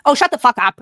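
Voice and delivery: loud sudden outburst; exasperated shout. Real, not acted. Scolding the woman in the video, a loud exasperated shout. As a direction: blurt it loud, fed up. Yelling at the clip.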